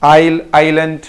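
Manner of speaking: आइल then आइलैंड, built up part by part; careful model. Shown as a demonstration. Teacher drills pupils on the word. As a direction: break आइलैंड into आइल first. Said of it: "इस पे थोड़ा आपको focus करना है".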